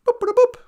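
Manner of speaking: high, loud vocal boops; quick electronic chirps done by mouth; imitated computer boops. Computer answering a holodeck visitor, booping.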